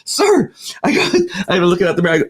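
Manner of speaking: high pleading sir; a high, begging sir. Retold or imitated. Driver pleading with the angry trooper, high.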